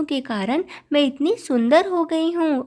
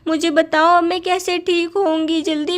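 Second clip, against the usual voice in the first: upset demand; 2 semitones higher than usual. Acted. Ugly younger wife, yelling at the girls to fix her, upset demand. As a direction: demand an answer in a panic.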